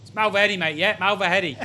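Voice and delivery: lightly imitated London accent; a hint of a mock Londoner; big Londoner. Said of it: "big Londoner".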